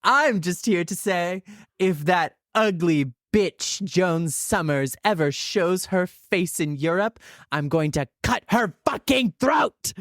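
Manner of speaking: put-on a light semi-British accent, mostly her own voice. As a singer threatening Joan, a light semi-British accent. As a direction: menace in a half-hearted semi-British accent. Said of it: "talk in a semi-British accent".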